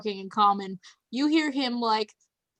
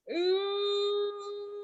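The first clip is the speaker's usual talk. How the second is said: bear crying; 10 semitones higher, 4 dB quieter than usual. Acted. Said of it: "Carl starts crying in bear".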